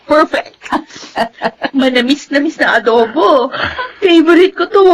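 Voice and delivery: tearful, happy praise; choked up while praising the food; teary delight. Acted. Daughter tearfully praising the family's adobo.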